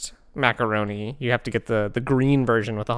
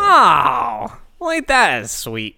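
slow, higher sweet-talk; mock doting; 9 semitones higher, 4 dB louder, much slower than usual. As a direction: coo over it like a granny. Mock doting reaction to dogs.

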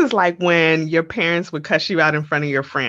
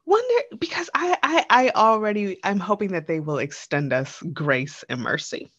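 leaning into the mic. Real, not acted. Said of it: "I'm gonna lean into the mic".

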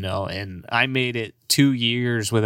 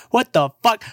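high, louder mock outrage; mock disbelief; 11 semitones higher, 5 dB louder than usual. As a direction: throw it up high like a cartoon shock. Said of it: "I was like".

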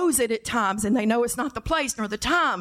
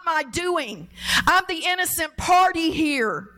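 Elijah complaining; 4 semitones higher than usual. Retold or imitated. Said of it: "You can sense it in his words".

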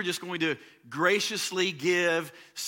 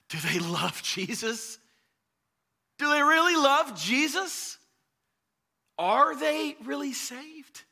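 higher, louder anxious questions; anxious father; 11 semitones higher, 5 dB louder, slower than usual. Retold or imitated. Father voicing fear about whether his kids are saved, anxious. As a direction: let the fear for the kids break through.

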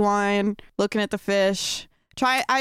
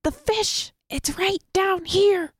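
excited calling; 8 semitones higher, slower than usual. Acted.

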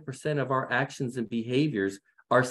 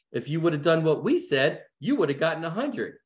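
lightly imitated parental reproach, a little higher; mock critical parent; 3 semitones higher than usual. Parents tell their child how to get a hundred, mock reproach. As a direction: play the parent who knows better. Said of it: "this is my parents talking".

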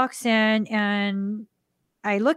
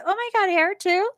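high, delighted disbelief; imitating a stunned, thrilled woman; amazed; 10 semitones higher than usual. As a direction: gasp it out in happy shock. The lady's amazed reply.

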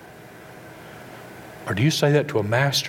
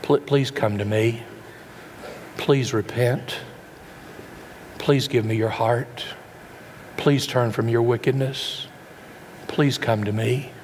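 slow gentle pleading; slower than usual. Retold or imitated. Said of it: "How many times has God pleaded with you".

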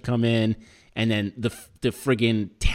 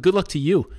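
higher-pitched mocking comeback; indignant echo; 7 semitones higher, 4 dB louder than usual. Defendant throwing the official's good wishes back, high-pitched and mocking. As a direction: toss the farewell right back.

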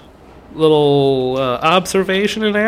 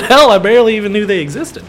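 repeated louder; 6 semitones higher, 6 dB louder, faster than usual. Real, not acted.

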